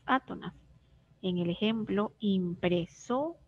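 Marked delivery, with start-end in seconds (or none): 2.2-3.4 impresora said slowly, SO held longer; stress on SO. Shown as a demonstration. Teacher showing which syllable sounds strongest, impresora slow with stress on so. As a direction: draw out impresora, leaning on so. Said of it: "la que suena más es la sílaba so".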